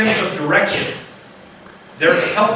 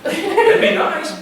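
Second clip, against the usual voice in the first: high, slow, laughing sheep voice; laughing mock sheep; 10 semitones higher, much slower than usual. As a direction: play a dim sheep, chuckling. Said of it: "they don't all go".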